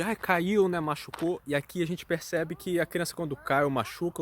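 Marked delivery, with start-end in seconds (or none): 0.0-1.4 imitação leve de pais acudindo o filho, mais aguda; lightly voiced fussing parent, pitched up; pais preocupados. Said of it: "os pais têm essa coisa de". (pais cautelosos, imitados de leve)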